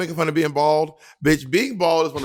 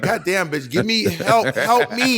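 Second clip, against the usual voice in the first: mock exasperated plea; 5 semitones higher, slower than usual. Acted plea to a judge.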